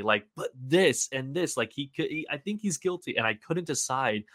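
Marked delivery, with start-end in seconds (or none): 0.3-3.2 lightly nagging, rising in pitch; a hint of an insistent inner doubter; pestering inner voice. Inner voice arguing that he's guilty, mildly pestering. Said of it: "that other voice pestering at me".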